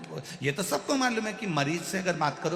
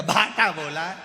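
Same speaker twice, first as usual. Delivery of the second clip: annoyed retort; 2 semitones higher, 6 dB louder than usual. Acted. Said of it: "इसने बोल दिया".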